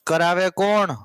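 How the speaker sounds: "કરાવે કોણ" stretched out, lingering on કોણ; drawn-out question. Real, not acted. Teacher asking the class again, "કરાવે કોણ" drawn out. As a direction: repeat "કરાવે કોણ" slowly, holding the vowel of કોણ.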